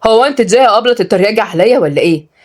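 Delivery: mild irritated challenge; a touch of offence; annoyed. Acted. Boy objecting to being teased, annoyed. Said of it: "قال عبد الجبار بضيق".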